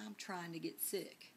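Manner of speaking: lightly imitated Southern accent; Southern roommate's accent. Teacher retelling her roommate's remark at dinner, light Southern accent. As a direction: quote her with a mild Southern twang. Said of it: "when I lived in the South, my roommate says".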